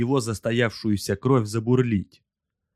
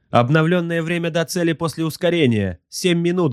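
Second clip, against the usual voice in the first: high-pitched subordinate's report; high-voiced crew slave reporting; servile gunnery slave; 8 semitones higher than usual. A narrator's reading. Slave reports updated time.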